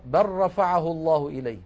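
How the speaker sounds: بل رفعه with the lam merged into the ra; reciting the example. Shown as a demonstration. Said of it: "مثال آخر".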